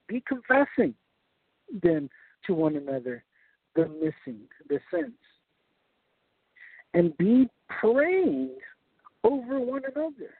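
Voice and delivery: slow, deliberate scripture reading; reading slowly. Shown as a demonstration. Preacher reads the Yoda-like translation aloud, slowly. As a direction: draw the backwards verse out word by word. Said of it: "I'm gonna read this slowly".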